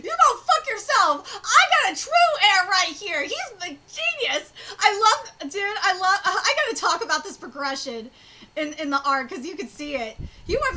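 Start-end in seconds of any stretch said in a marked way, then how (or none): 0.0-4.5 loud, gloating defiance; Halfdan. Acted. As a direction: crow at a rival over your new heir. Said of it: "He's like".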